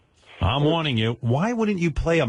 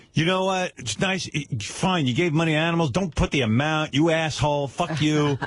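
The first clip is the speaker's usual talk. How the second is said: mock-angry fan rant, higher voice; vicious attack; 4 semitones higher than usual. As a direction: act out an indignant online pile-on. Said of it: "the fans viciously start attacking Eric".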